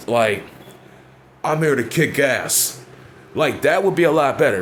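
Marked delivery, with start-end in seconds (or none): 1.4-2.8 slow, deliberate tough-guy promo; a hint of a menacing heel promo; tough promo line. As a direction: lay it down like a badass wrestler. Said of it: "You could at least said".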